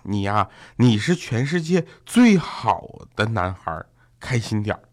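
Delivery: slow, measured motherly consoling; comforting. Retold or imitated. Mother comforting her son on the phone, slow and soothing. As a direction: console gently, drawing out the words. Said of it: "我妈就在电话里安慰我".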